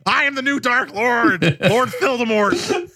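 high, slow hammed-up villain; dark lord. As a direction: cast it like an evil wizard. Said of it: "I'm just gonna be like".

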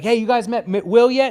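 drummer asking the band. Retold or imitated. Drummer voiced introducing Will.

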